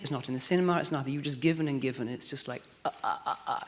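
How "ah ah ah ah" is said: short, soft breathy "ah" sounds; imitated draining out. Actress showing how giving drains out of her, soft repeated gasps. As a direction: let out little repeated puffs of "ah". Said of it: "it's like coming out of you".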